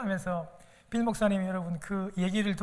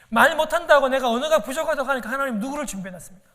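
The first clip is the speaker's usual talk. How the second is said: louder and faster, pressing the question; fervent preaching question; 3 semitones higher, 6 dB louder, faster than usual. Real, not acted. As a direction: drive it home to the pews. Preacher's rising challenge to congregation. (목소리를 높여 빠르게 다그치듯)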